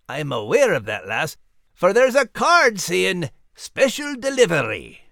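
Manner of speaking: sheepish, then coaxing; lightly Scottish Max. Acted. Max voiced.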